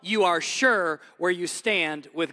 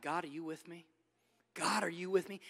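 much softer, earnest asking; quiet plea; 3 semitones lower, 9 dB quieter than usual. Acted. David in his quiet stronghold asking God, much softer. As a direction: ask God gently under the breath.

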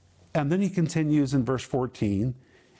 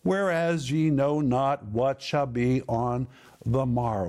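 each word drawn out slowly for emphasis; unhurried scripture reading, pointing to each word; slow, deliberate reading. Shown as a demonstration. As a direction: read it slowly so every word lands. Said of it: "But notice again in verse fourteen".

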